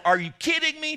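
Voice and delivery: over-the-top amazed shout at a shop clerk; incredulous exclaim. Pretend. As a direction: fire it at a stranger in mock disbelief. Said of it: "To the girl behind the counter".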